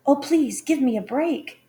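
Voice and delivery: high, loud, frightened plea; pleading cry. A narrator's reading. Snow White begging the huntsman with the knife, frightened cry. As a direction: beg for your life. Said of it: "She cried".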